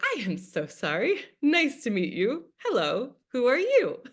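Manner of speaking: lilting, pitch-swooping hello to a newcomer; retold friendly introduction with high swoops; apologetic greeting. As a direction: greet a new friend sweetly, playfully sorry.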